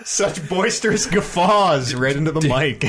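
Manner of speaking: mock-formal. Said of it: "mock-formal slow comment".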